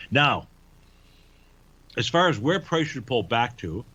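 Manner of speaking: talking around an ice cube; ice in mouth. Real, not acted. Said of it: "let me get rid of this ice cube that slipped into my mouth".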